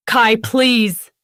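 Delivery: loud desperate plea; pleading shout. A narrator's reading. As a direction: beg him at full voice. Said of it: "I shouted".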